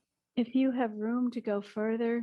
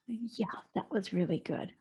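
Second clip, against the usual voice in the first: softer, lightly patronizing praise; self-encouragement; 5 dB quieter than usual. Pretend. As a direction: pat your tired self on the back. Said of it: "encourage yourself".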